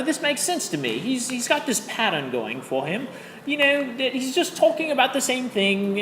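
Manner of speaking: amateurish mock British accent; terrible British accent. Shown as a demonstration. Teacher telling of the baseball talker on the train, bad British accent. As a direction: tell it in a wobbly, badly faked British accent. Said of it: "my terrible British accent".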